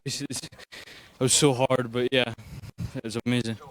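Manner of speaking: hoarse, worn-out voice; lost voice. Real, not acted. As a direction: speak with a voice that's nearly gone. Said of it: "lost my voice".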